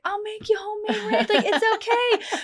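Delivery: soothing husband. Retold or imitated. Husband soothing crying wife.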